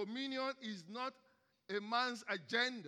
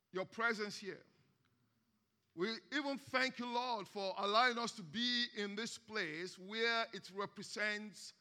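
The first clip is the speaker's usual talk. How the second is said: prayer. Acted. Leads congregation in prayer.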